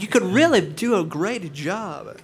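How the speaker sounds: high, put-on Scandinavian-ish accent; funny accent. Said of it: "did the stunt guy have a funny accent".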